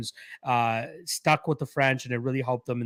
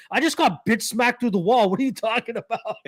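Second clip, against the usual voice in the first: Krillin voice; 8 semitones higher than usual. Retold or imitated. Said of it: "And he goes".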